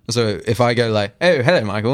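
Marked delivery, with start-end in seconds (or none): 1.2-1.9 hammed-up British greeting; fake British accent. Shown as a demonstration. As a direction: put on a mock British hello. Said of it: "I speak to them in a fake British accent".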